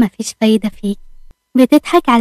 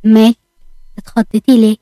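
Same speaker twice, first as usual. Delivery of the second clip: a lightly voiced doubting husband probing; understated suspicion; suspicious. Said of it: "عمر بشك".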